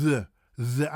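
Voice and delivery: the with tongue between teeth; careful English th on the; correct TH. Shown as a demonstration. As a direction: buzz the th in the. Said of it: "I had to learn that".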